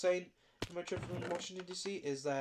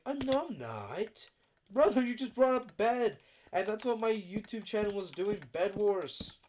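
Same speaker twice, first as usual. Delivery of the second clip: mock innocent friend; 4 semitones higher, 5 dB louder, slower than usual. Friend voiced denying in a story.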